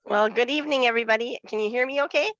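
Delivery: stuffy nose from a cold; speaking through a blocked nose; congested nasal voice. Real, not acted. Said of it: "my nasally congested voice".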